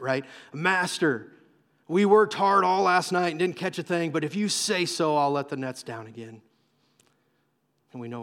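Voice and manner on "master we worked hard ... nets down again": weary, grudging compliance, starting loud and sinking; almost sarcastic. Acted. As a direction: give in with a touch of sarcasm. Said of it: "almost sarcastically, he shares this".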